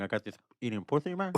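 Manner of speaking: Scarface impression. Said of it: "do you do your Scarface?".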